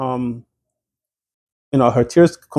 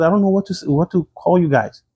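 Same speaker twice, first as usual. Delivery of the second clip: higher-pitched, mildly exasperated retelling; retold anger; 5 semitones higher than usual. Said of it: "she started becoming angry".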